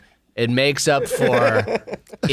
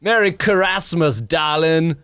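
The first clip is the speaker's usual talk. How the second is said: slowed down; slower than usual. Shown as a demonstration. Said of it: "You'd have to really slow it down".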